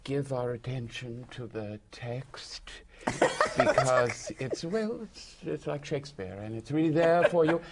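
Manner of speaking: mock-grave, halting advice; rather grave. Visitor advising an actor to give attention to the text, gravely. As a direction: deliver it with solemn, measured weight. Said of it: "you know, rather gravely".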